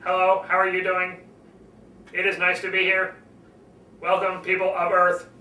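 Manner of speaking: lightly voiced robot monotone; a hint of a flat mechanical greeting; mild mock robot speech. Shown as a demonstration. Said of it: "they talk like this all the way through".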